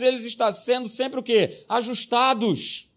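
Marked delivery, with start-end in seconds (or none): 1.7-2.9 drawn-out slow ajustados; slow emphasis. Acted. Pastor teaching a key word, slow. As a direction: stretch Ajustados out slowly.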